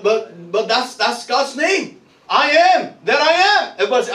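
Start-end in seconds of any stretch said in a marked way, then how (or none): 2.3-3.7 raised, emphatic preacher's call; rallying call. Real, not acted. Preacher giving the congregation God's name to repeat, rallying call. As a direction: lead the congregation in a declaration.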